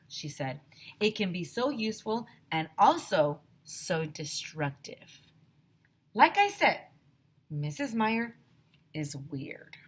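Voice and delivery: lively read-aloud for a class; story reading. A narrator's reading. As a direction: read the chapter to the kids with expression. Teacher reads story aloud.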